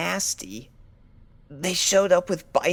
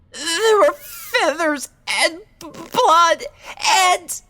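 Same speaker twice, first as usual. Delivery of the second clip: breaking into sobs; 9 semitones higher, 7 dB louder than usual. Acted. Fluttershy breaks down recalling attack.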